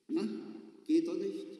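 domineering question. Acted. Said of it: "fragte der Busfahrer herrisch".

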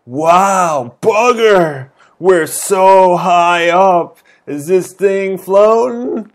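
put-on British girl, loud and rattled; British character voice. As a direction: shout it like a startled British lass. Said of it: "I don't know what kind of voice to give her".

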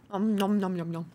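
chewing noises nom nom; munch through the nom noms; nom nom chomping. Real, not acted. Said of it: "Almost done".

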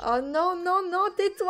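comic exasperation; mock despair. Real, not acted. Baby starts crying again.

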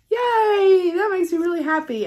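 real giddy joy; happy cheer. Real, not acted. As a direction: cheer out loud, then rush on. Cheering over gift.

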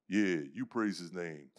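low, slow, calm encouragement; lightly voiced steady friend egging him on; calm encourager. Friend encourages converting man.

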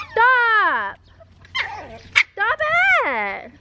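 high, firm command to the dog; sharp stop. Real, not acted. Owner ordering the dog to stop, high and firm. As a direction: snap the dog to a halt.

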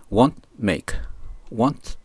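"want" ending in a silent stop, no puff of t; unreleased T. Shown as a demonstration. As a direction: close "want" on a held T. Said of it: "tと言わないように". (「want」の語尾Tを言わずに止める)

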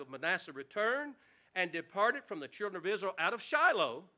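measured King James reading; scripture reading. Acted. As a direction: read the verses with reverence. Reads scripture aloud to congregation.

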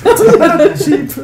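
high, slow, laughing bird voice; cartoon bird voice. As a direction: squeak it slowly through a laugh.

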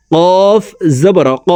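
কফ made with tongue root on palate. Shown as a demonstration. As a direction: push ক back to the tongue root. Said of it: "জিব্বার গোড়া তার বরাবর উপরের তালুর সঙ্গে".

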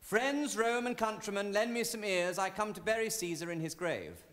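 declaimed schoolboy Shakespeare; schoolboy recitation. Acted. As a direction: recite Shakespeare like a learned lesson. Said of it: "running over in his mind the speech".

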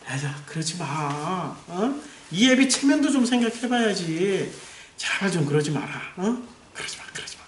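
weak, halfhearted scolding that trails into a whisper; mild pleading father. Acted. Eli gently telling off his wayward sons, mild pleading. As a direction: plead softly, drawing out the words. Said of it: "이런 거죠, 엘리는".

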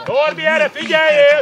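loud call for attention; instructing shout. Real, not acted. Coach telling a player to pay attention, loud shout. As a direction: project it across the pitch.

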